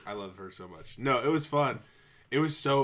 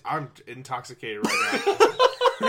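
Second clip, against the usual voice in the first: put-on drunk voice; 8 dB louder than usual. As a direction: play it sloppy and tipsy. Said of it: "I just really like to do a very drunk voice".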